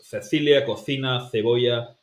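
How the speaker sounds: Cecilia cocina cebolla with Castilian th sounds; Spanish from Spain. Shown as a demonstration. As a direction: lisp every C like a Madrid speaker. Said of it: "someone from Spain will pronounce this as".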